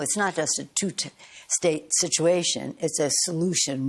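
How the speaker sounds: situation set against solution, weight on solution; stress on solution. Real, not acted. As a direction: punch "solution" over "situation". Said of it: "I emphasize the word solution".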